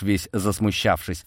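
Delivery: usual speaking voice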